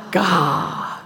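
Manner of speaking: a demo of a breathed-out Gah; breathy gasped Gah. Shown as a demonstration. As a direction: pull in a gasp, then breathe out Gah. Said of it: "kinda like breathing".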